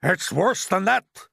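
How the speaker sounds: high, loud, slow exclamation; alarmed cry. A narrator's reading. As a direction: cry out in dread. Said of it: "cried the chief of police".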